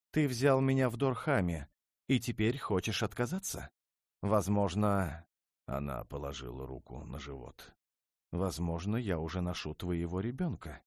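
wounded princess. Acted. Princess hints at a child to her husband, high and pleading. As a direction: she plays her last card.

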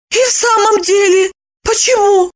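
high, startled woman's voice; taken aback. A narrator's reading. Lipochka stunned by Roman's question. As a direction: puzzle it out, caught off guard. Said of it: "Липочка опешила".

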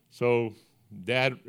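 ordinary talk

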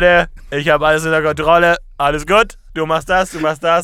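brash know-it-all in control; cocky guy in charge. Pretend. Acting out the Herr der Lage.

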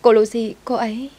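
high, alarmed stammering report; panicked alarm. Acted. Maid tells master about collapsed Lucy, panicked alarm. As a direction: blurt it out high, unable to finish.

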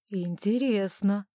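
slow, musing remark; mildly intrigued, lingering delivery; thoughtful. Acted. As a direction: draw the word out as if pondering. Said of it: "задумчиво проговорил он".

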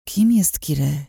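slow, muffled gagged question; mumbled through gag. A narrator's reading. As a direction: slur it around the cloth. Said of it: "wybełkotałam".

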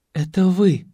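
breathless little gasp of recognition. A narrator's reading. Anastasia gasps on recognising her old coach, surprised. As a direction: gasp it out in shock. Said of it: "ахнула Сиротина".

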